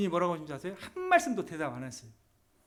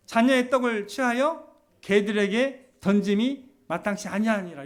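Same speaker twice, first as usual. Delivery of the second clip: stern quote; 3 semitones higher, 7 dB louder than usual. Retold or imitated. Jesus' harsh refusal, quoted in sermon.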